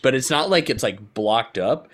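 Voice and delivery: usual speaking voice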